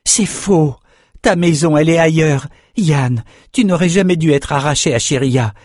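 high-pitched, earnest entreaty; pleading. Acted. Young fencer begging his friend to be free, pleading. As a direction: beg a friend to come away with you. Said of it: "je t'en supplie".

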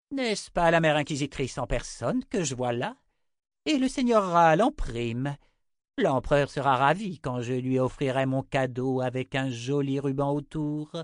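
mocking witch, lilting with relish; gloating witch. Six greeting her prisoners, gloating. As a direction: gloat over captured prey.

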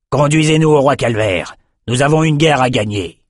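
commanding general, firm; stern order. Acted. General ordering rowers to the king, stern command. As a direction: order them to row on.

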